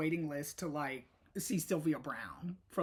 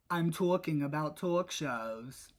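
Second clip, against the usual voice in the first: imitating a New York accent on talking and talk; a quick New York accent take on the show name; 2 semitones lower than usual. Host mimicking New York accent for viewers. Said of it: "or as they say in New York".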